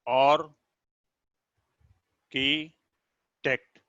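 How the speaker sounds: और, की, टेक्ट with long silences between; split into syllables. Shown as a demonstration. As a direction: give और, की and टेक्ट each its own isolated beat. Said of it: "ये भी three syllabic है". (और, की, टेक्ट को लंबे विराम देकर अलग-अलग बोलना)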